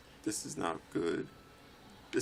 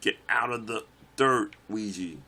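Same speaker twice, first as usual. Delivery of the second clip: loud, raised pitch, punched words; urgent yell; 2 semitones higher, 6 dB louder than usual. Real, not acted. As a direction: order the character out loudly. Yelling at own game character.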